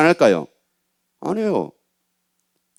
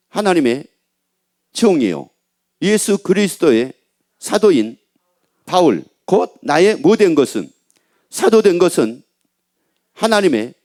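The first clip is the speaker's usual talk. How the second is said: slow, measured Bible reading; deliberate, spaced-out recitation of scripture. Acted. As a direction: read the verse out phrase by phrase, with pauses. Reads scripture aloud.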